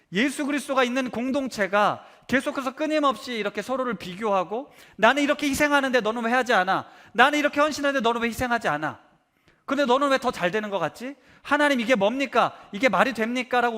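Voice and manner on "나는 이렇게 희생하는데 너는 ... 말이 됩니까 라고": raised, louder indignant protest; arguing complaint. Retold or imitated. Believer complaining to God about unfair blessings, indignant and louder. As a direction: demand answers, aggrieved and heated. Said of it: "끊임없이 따지고 있다".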